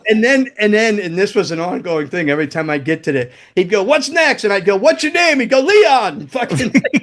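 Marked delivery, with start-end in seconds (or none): 3.8-4.4 high-pitched insistent question; mock bandmate hollering; imitated yelling. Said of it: "Leon's yelling shit". 4.8-5.4 high-pitched mock question; mimicking a pestering call; retold exasperated comeback. Retold comeback to yelling bandmate. 5.6-6.2 high, hollered name; mock eager reply; imitated bandmate's answer.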